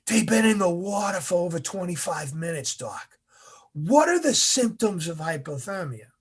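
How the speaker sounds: lightly voiced instructor prompting the doc; instructor's challenge. Instructor prompts doc before trainees.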